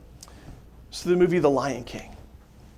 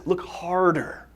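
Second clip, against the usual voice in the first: gentle repeat; slower than usual. Retold or imitated. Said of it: "He says".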